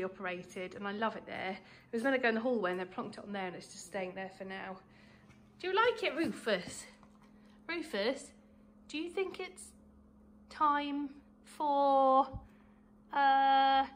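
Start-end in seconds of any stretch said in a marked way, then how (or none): 5.6-13.8 dog-talk voice. Real, not acted. Talking to the dog Rufus.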